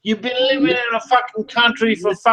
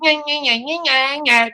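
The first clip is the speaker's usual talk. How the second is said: higher sing-song playground taunt; taunting nya nya; 4 semitones higher than usual. Acted. Teasing the man he's insulting, higher sing-song taunt. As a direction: jeer like a bratty child.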